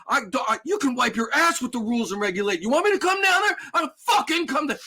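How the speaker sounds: high, loud furious tirade, pitch climbing; put-on outraged yelling, escalating; upset customer yelling. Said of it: "a customer who's so upset that he's yelling at me".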